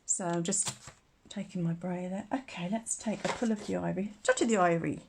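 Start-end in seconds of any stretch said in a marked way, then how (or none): 4.2-5.0 playful put-on Irish-style accent. Crafter playing on ivory sounding like Irish, put-on accent. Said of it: "I'm terrible for doing accents".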